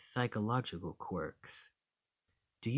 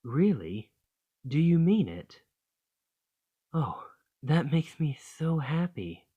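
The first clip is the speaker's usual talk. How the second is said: delighted gasp; 6 semitones higher, 6 dB louder than usual. Acted. Girlfriend hears partner agree to move in.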